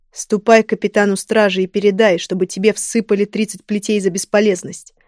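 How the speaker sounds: angry command. Acted. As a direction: order him punished with contempt. King punishes useless servant.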